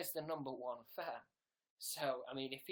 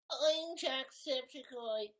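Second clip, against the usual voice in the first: loud, high, drawn-out mock Irish accent; Jacksepticeye; 9 semitones higher, 6 dB louder, much slower than usual. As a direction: belt out a slow, exaggerated Irish brogue. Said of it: "I can't keep the accent going".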